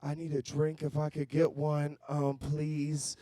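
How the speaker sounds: hesitant shy guy at a bar; timid orderer. Pretend. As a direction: meekly ask the bartender for a drink. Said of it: "all timid at the end of the bar".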